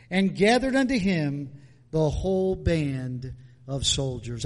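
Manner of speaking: measured Bible reading to the congregation; scripture reading. Acted. Preacher reading scripture to the church, solemn. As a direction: read the verses solemnly.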